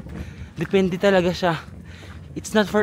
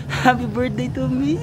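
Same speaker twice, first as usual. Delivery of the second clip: cheery birthday exclaim; 5 semitones higher than usual. Real, not acted. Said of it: "I almost forgot. It's my birthday".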